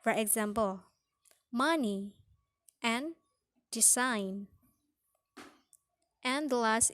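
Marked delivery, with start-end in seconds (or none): 1.5-2.1 "money" with MON stressed; first-syllable stress. Shown as a demonstration. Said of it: "come on the first syllable". 3.7-4.5 "design" with SIGN stressed; second-syllable stress. Shown as a demonstration. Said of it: "be on the second syllable".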